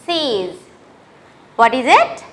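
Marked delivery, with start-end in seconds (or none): 0.1-0.6 six said the French way as "sees", final x as a soft s; French pronunciation. Shown as a demonstration. Teacher to grade six pupils, six as French "sees". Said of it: "you pronounce it as".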